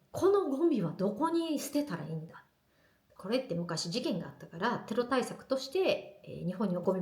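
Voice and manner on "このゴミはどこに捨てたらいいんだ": puzzled husband. Retold or imitated.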